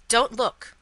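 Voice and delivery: loud warning shout; sharp, alarmed warning; urgent cry. A narrator's reading. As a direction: cry out to stop someone. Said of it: "cried Mister Lorry".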